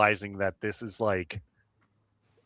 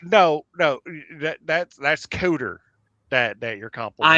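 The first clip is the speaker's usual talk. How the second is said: higher, louder, tumbling over the words; excited correction; 4 semitones higher, 5 dB louder than usual. Acted. Cletus hurriedly correcting who is being complimented, excited. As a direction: blurt it out, flustered.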